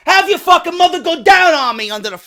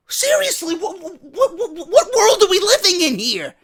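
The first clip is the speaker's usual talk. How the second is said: laughing disbelief; 6 semitones higher than usual. Real, not acted. Laughing disbelief at Christmas rush.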